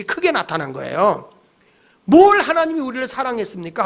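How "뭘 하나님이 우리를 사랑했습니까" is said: mock indignant protest; defiant challenge. Israelites pointing fingers at God, defiant. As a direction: talk back with mild acted anger. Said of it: "막 삿대질하고 대든 거예요".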